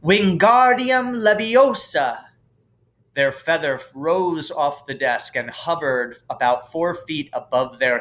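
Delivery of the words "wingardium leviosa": slow, high, clear spell with a long gar in Wingardium; precise incantation. A narrator's reading. Hermione showing Ron the spell done right. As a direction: cast it perfectly, drawing out the gar. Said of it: "and said".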